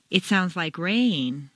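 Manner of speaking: slow, rain stretched over two notes; slow, "rain" drawn out over two notes; slow stress on rain. Shown as a demonstration. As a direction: linger musically on the word rain. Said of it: "Make rain very musical".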